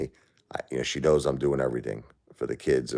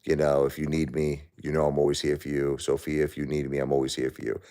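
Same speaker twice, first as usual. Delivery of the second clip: put-on softer, gentle reassurance to his children; reassuring his kids; 4 dB quieter than usual. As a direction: tell them softly you're always there for them. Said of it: "I say".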